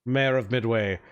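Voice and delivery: lightly voiced eager host, rattling on fast; gushing mayor. Mayor offers refreshments to his guest, lightly gushing and quick. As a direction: pile on the hospitality, quick and eager.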